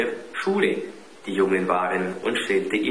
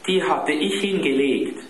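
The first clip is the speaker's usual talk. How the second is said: put-on higher, relieved child's voice; mildly eager boy; 7 semitones higher, 3 dB louder than usual. A narrator's reading. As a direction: explain it with a touch of relief. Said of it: "erklärte Klaus aufatmend".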